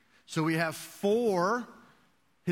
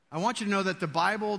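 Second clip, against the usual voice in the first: auctioneer; 4 semitones higher, 4 dB louder, faster than usual. Pretend. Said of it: "I'm gonna put on my auctioneer's voice".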